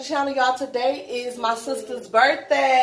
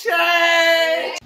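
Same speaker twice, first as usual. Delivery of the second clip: calling out. Real, not acted. Calling out to a kid.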